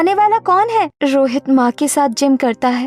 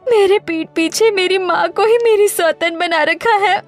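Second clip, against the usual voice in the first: crying; 3 semitones higher than usual. Acted. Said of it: "ये वक्त रोने का नहीं है".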